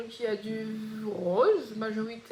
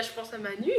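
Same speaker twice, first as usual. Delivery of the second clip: laughing. Real, not acted. Laughing while remembering a friend.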